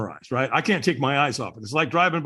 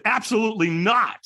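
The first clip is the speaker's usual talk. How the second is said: higher-pitched, emphatic refusal; firm refusal; 6 semitones higher than usual. Retold or imitated. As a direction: shut the offer down completely. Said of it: "I said it to him with that kind of tonality".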